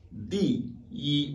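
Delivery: "di yi": falling "di", high level "yi"; first-tone yi. Shown as a demonstration. Teacher shows ordinal number, high level "yi" in "di yi". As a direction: drop "di", hold "yi" high and even. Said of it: "il se lit automatiquement yi".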